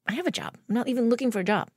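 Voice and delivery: retold flustered no; exasperated refusal. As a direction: push back, half laughing at the absurdity. Insisting she already has job.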